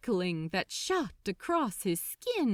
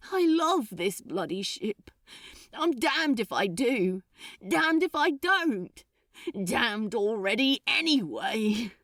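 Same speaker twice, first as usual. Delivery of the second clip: anguished outburst; 4 dB louder than usual. Acted.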